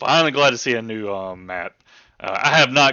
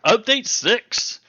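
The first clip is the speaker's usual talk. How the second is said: slow announcer reveal; 12 semitones higher, 4 dB louder, much slower than usual. Real, not acted. Announcing the update.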